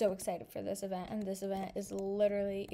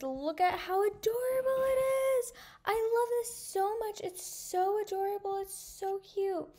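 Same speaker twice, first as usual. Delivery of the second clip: much higher, gushing cutesy voice; squealing over cute pet; 10 semitones higher, 4 dB louder than usual. Real, not acted. Girl cooing at her new kitten, high and gushing.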